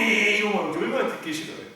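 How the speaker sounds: ordinary delivery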